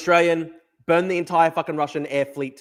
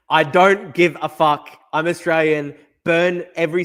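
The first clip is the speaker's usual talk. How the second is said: louder, slow, punched defiance; 6 dB louder than usual. Real, not acted. Streamer rants at chat about Russia, loud slow defiance. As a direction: hammer each word out in defiance.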